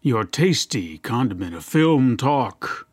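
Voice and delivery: lightly smooth, slow announcer; a hint of a silky TV host. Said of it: "trying to be that, that smooth, silky guy you see on T V".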